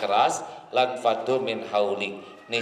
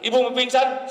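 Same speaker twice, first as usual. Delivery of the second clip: mock fainting wife; 12 semitones higher, 4 dB louder, faster than usual. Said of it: "Kalau Bapak melihat istri lebay".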